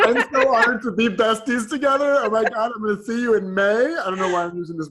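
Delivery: high, bright put-on voice, squealing with delight; silly high voice. To her best friend on the podcast, gushing in a silly high voice. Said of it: "Where did this voice come from?".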